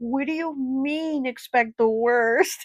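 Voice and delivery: upset, angry outburst. Recalling being told to expect the worst, retelling an angry outburst. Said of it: "I remember just getting so angry".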